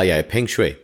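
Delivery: ordinary talk, nothing marked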